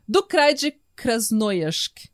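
slow Russian-accented place name; mock Russian accent. Shown as a demonstration. Host repeating the Russian place name, careful Russian accent. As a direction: pronounce it slowly with a put-on Russian accent. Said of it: "preparem-se pro meu sotaque russo".

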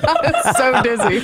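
slow, giggly and dizzy; laughing. Real, not acted. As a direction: laugh through the words, slowly. Dizzy after hyperventilating, laughing.

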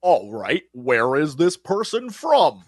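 low, drawn-out actor impression; lightly mock a ponderous actor studying a role; slow, put-on deep question; Tom Hardy. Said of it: "And he's like".

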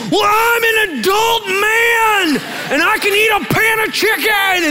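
hammed-up indignant husband, wailing in protest; yelling.

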